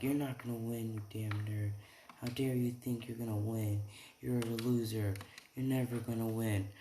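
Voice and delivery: lightly acted rival's jeer; mock taunting. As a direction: taunt a rival without shouting.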